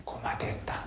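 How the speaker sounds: breathy whisper of 고마됐다 in Gyeongsang dialect. Shown as a demonstration. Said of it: "경상도 사투리로 뭐라고요?".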